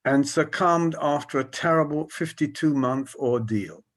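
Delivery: measured reading to an audience; slow reading aloud. Real, not acted. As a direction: read the verse out carefully. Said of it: "I'll read slowly".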